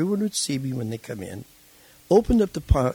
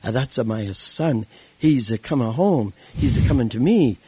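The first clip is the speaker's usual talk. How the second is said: the Italian preacher's broken English, building louder; 5 dB louder than usual. Retold or imitated. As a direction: imitate an old Italian preacher, swelling with joy. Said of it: "as the man in broken English said".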